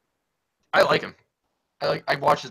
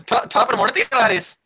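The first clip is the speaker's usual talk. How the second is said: a light, loud stage Irish greeting; mock Irish accent; 4 semitones higher, 5 dB louder than usual. Teasing a friend with a hammy Irish greeting, louder stage Irish. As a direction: tease her with a hammy Irish hello. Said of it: "uh, Irish accent".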